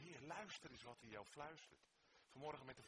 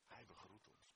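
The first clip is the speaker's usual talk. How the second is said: much softer echo of the line; softly repeated; 5 semitones lower, 11 dB quieter than usual. Shown as a demonstration. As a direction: drop to a hush the second time. (zacht herhaald)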